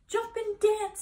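high, loud crowing; rooster crow. A narrator's reading. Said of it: "said the rooster".

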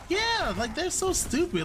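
exasperated. Real, not acted. Raging at teammates mid-game.

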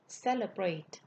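"Celebrate" with the stress on CE; stress on first syllable. Shown as a demonstration. Teacher repeating the verb for learners, "Celebrate" stressed on the first syllable. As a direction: hit the opening syllable of "Celebrate". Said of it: "ngữ điệu sẽ nhấn ở vần một".

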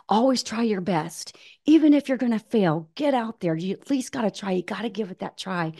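a hint of earnest parental urging; encouraging parent. Parent voiced urging a child on.

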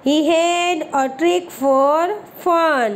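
deliberate word-by-word reading; slow model reading. Shown as a demonstration. Teacher reading the English story line to pupils, very slow. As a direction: read each English word very slowly and clearly. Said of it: "reads English line slowly".

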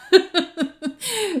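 a bright, high little laugh at herself; a quick rueful giggle; amused laugh. Real, not acted. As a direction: laugh off the memory of losing. Laughing at losing the pageant.

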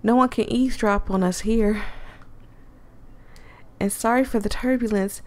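put-on secretive country girl voice; Southern accent. Voices Allie.

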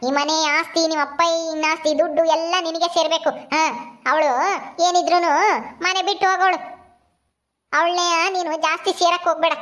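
a hint of a stern old granny; lightly voiced disapproving grandmother. Grandmother tells Ramu to leave the girl crying, dismissive. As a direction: discourage him, grandmotherly and dismissive.

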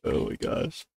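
breathless whisper of oh my gosh; hushed amazed whisper. Real, not acted. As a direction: whisper in disbelief. Reaction to screaming.

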